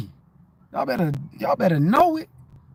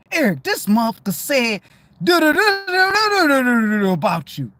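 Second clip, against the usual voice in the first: high, louder, near-crying tone; replaying the remark; 5 semitones higher, 3 dB louder than usual. Recalling an insult days later, high and strained. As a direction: mimic a remark that stung late.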